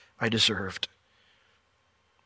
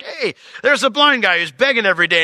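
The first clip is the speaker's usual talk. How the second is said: gossiping disciple; 9 semitones higher, 7 dB louder than usual. Retold or imitated.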